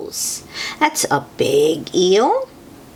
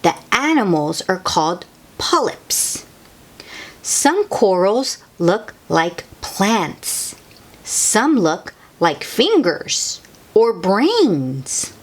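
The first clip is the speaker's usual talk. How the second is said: put-on reading to children. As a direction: read it out to small kids, unhurried. Reading a picture book aloud.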